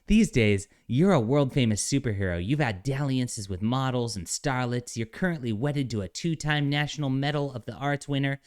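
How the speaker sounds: lightly voiced smug lecture; a hint of a self-righteous alien; mocking soy voice. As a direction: deliver it primly with a hint of scorn. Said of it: "soy voice".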